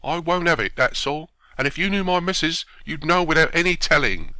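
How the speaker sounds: acted heated refusal; indignant refusal. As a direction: put your foot down, outraged. Watchman flatly refuses.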